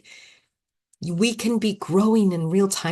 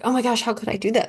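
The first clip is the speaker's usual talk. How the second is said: mock self-scolding; 6 semitones higher, faster than usual. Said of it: "instead of hating myself".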